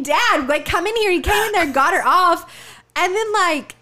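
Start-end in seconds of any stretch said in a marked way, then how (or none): 0.0-1.1 mild mock yell, a bit louder; mock scream for dad; retold scream for dad. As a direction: call out for dad, half-hearted.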